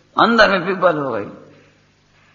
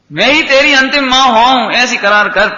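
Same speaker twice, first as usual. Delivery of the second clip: lightly acted mother's vow-demand, raised pitch; Rukmini; 4 semitones higher, 3 dB louder than usual. Mother demanding a pledge from her son, lightly voiced insistence. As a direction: declare it emphatically, as a retold mother. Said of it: "Rukmini ये बोली".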